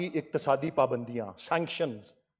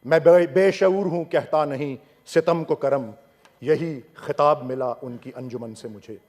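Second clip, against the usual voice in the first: measured Urdu verse recital in parliament; formal verse quotation, pausing between phrases; poetry recitation; 4 semitones lower than usual. Real, not acted. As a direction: recite the couplets with falling line ends.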